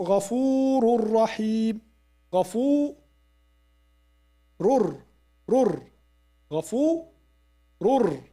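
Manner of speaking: غفور رحيم with the tanween merged into a doubled ra; idgham demo. Shown as a demonstration. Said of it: "demonstrating tanween idgham".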